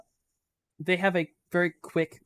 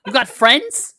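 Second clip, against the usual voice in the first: laughing out loud, much louder; 7 semitones higher, 12 dB louder, slower than usual. Real, not acted. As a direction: burst out laughing while asking. Laughing at Ollie.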